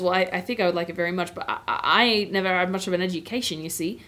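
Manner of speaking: lightly voiced Cockney cabbie; mild Cockney, a humble working man; Cockney accent. Cabbie answering Aslan about ruling, light Cockney accent. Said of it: "the Cockney accent is what I've been doing".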